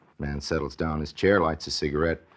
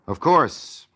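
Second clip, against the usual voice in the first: ironic; 9 semitones higher, 5 dB louder than usual. Acted. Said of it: "says Orson Welles".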